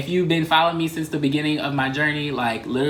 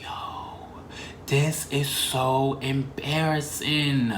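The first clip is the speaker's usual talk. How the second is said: embarrassed; 5 dB quieter, much slower than usual. Retold or imitated. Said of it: "And I'm just like".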